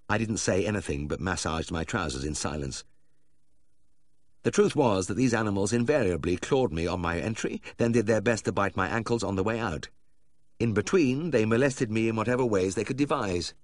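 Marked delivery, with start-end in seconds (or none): none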